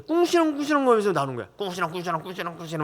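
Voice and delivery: quick mumbled grumbling noises; mock the mother's muttering; imitating grumbling. Father mimics mom grumbling under her breath, mumbling. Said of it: "막 이런 거 있잖아요".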